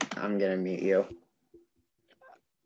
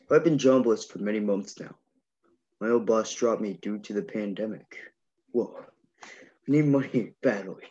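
Kronk impression. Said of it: "wanna hear your Kronk impression".

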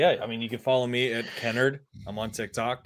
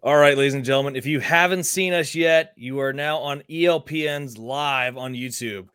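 hyped host voice. Pretend. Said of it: "do the voice".

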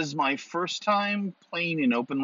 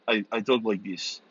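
Russian accent; 3 semitones lower than usual. Shown as a demonstration. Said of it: "talk with a Russian accent".

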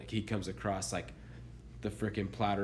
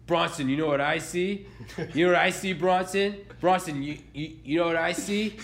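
put-on higher, louder, excited kid who can't get it out; stammering kid; 6 semitones higher, 3 dB louder than usual. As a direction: keep circling the question like an eager little kid. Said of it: "He goes".

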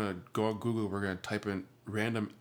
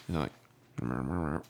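low, wordless mumbling imitation; mumbled chinchilla noise; 6 semitones lower than usual. Shown as a demonstration. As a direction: mumble like a small animal. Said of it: "they just mumble".

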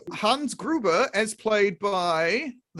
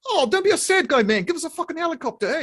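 villain voice; 8 semitones higher, faster than usual. Acted. Villain impression.

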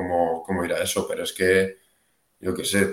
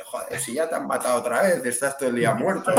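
mocking mother; 5 semitones higher, faster than usual. Retoma la burla de su madre.

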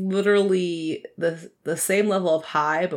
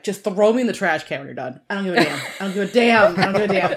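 laughing indifference; 2 semitones higher, 4 dB louder, faster than usual. Retold or imitated. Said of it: "I'm like".

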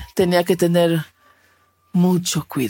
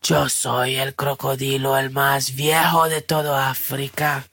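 put-on grumpy old crocodile; 3 semitones lower than usual. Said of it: "El crocodilo de mal humor le dijo".

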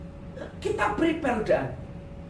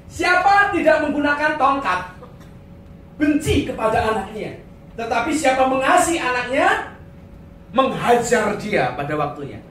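proclaimed verse; 2 semitones higher, 4 dB louder than usual. Acted. Reads proverb verse emphatically.

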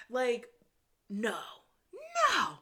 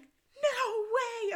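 high, loud mimicked squeal; excited disbelief; 14 semitones higher, 5 dB louder than usual. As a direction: imitate a friend squealing in disbelief. Friend electric inside the mall.

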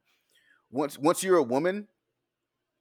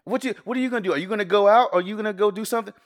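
eager mock send-off; 6 semitones higher, 6 dB louder than usual. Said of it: "my response is".

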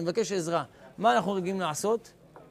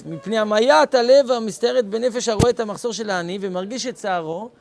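louder, stressed recitation of the text; loud reading of the text; emphatic reading; 8 dB louder than usual. Acted. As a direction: declaim it with weight. Reading the quote loudly.

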